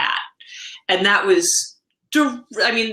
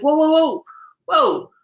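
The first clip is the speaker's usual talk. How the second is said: alarmed shout; 7 semitones higher than usual. Retold or imitated. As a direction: stop him before the spoiler hits. Stopping husband from spoiling show.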